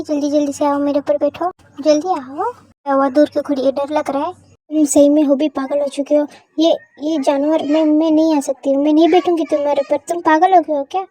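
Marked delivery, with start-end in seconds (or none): 4.3-11.0 louder, alarmed refusal; upset protest. Acted. Wife loudly refusing her husband's demand. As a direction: push him off with a loud no.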